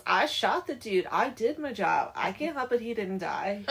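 mock-defensive griping, punched at the start; irritated henchman. Hired shooter excusing himself about his boss, mock irritated. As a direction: protest like a fed-up hired man. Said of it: "gets all irritated".

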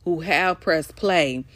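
slow and deliberate; slow it right down, clearly. Real, not acted. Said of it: "let me slow down".

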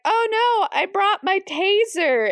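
high-pitched mock alarm; retold high-pitched panic; acted dismay. Retelling a character's dismay at airport.

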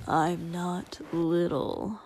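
matter-of-fact. Acted. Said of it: "Shoto answered matter-of-factly".

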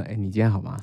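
台湾腔调的哎，你今天好吗？; Taiwanese intonation. Retold or imitated. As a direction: imitate a Taiwanese friend asking 哎，你今天好吗？. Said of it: "台湾人会说".

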